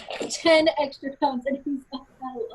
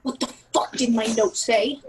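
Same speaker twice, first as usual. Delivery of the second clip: controlled angry demand, little raised; pissed off; 2 semitones lower than usual. Acted. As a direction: demand it with contained anger. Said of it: "She's fucking pissed".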